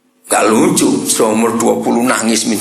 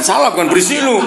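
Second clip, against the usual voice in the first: mock scolding parent; 7 semitones higher, faster than usual. Shown as a demonstration.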